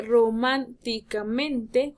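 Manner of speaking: "Románticamente" slowly broken, ro-MÁN-ti-ca-men-te; syllable by syllable. Shown as a demonstration. Teacher breaking down the next example, syllable by syllable. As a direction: sound out "Románticamente" piece by piece. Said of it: "contamos última".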